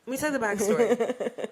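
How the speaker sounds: boozy mock storyteller voice; mock drunk. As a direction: ham up being drunk while telling it. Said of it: "I'm, I'm drunk".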